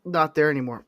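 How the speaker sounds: talking through hiccups; words broken by a hiccup. Real, not acted. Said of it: "Wow, I got the hiccups".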